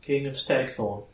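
high-pitched, sorrowful fairy queen; Titania, saddened. Acted. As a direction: greet a king with restrained sadness, pitched high. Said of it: "there is sadness in her voice".

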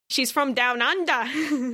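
slow, playful stab at Australian; dumb Australian accent. Pretend. Pitching a new character from Down Under, dumb Australian accent. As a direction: stretch it out in a joke Australian accent. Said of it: "make a dumb accent".

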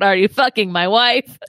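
Walken-like line reading. Shown as a demonstration. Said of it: "I just like to practice di- different line deliveries".

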